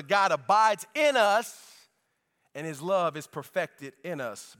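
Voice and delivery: scripture reading. Acted. Pastor reading the Bible passage aloud to the church. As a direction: read the verses with weight.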